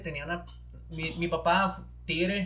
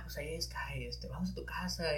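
whispered invitation; 6 dB quieter than usual. Retold or imitated. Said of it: "y era que".

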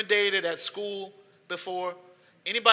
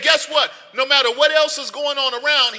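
preaching shout; 3 semitones higher than usual. Acted. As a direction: call it out to rouse the room. Preacher declaring to the crowd.

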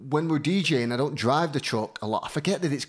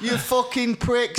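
higher, slow hammed-up insult; mock hater; 8 semitones higher, slower than usual. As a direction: drag out the troll's sneer. Voicing hateful inbox messages.

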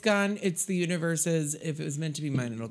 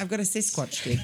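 Sasquatch voice; 3 semitones higher than usual. Acted. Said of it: "the fucking Sasquatch dick voice".

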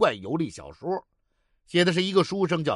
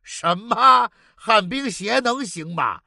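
shocked; 4 semitones higher, slower than usual. Acted. Shocked at roller skates.

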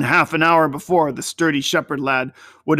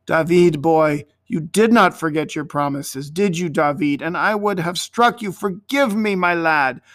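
touch of tenderness; 2 semitones higher than usual. Acted. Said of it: "a touch of tenderness".

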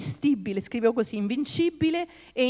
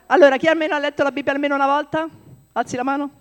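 loud, fast call to the room; 5 semitones higher, 7 dB louder, faster than usual. Real, not acted. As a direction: rouse the congregation. Preacher calling out to congregation. (chiamata forte e veloce all'assemblea)

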